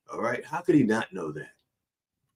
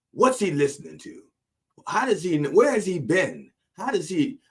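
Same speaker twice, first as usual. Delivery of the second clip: exasperated disbelief; 5 semitones higher than usual. Acted. Exasperated rant about Stuart.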